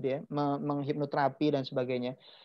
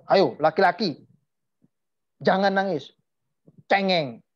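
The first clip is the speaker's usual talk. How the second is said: lightly voiced parent, a bit louder; mock parental telling-off; imitated scolding parent; 4 dB louder than usual. Parent telling a small boy not to cry, mock scolding. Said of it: "orang tua saya selalu bilang".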